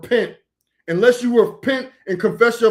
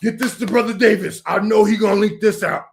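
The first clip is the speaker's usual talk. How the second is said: mocking imitation. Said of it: "That's how you talk".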